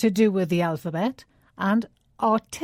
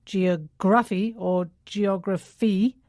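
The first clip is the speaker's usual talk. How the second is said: geography said twice with the stress on the wrong syllables; teacher demoing wrong stresses, a little slow; slower than usual. Shown as a demonstration.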